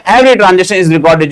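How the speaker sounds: reads each word out slowly for students to copy; dictating the line word by word; slow dictation. Shown as a demonstration. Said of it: "reads the definition out for dictation". (धीरे धीरे लिखवाते हुए)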